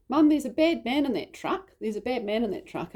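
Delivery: lightly voiced child raising the alarm; urgent child report. Daughter telling mum about a bad man, urgently.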